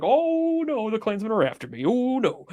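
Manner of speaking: mock panic. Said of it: "He's like".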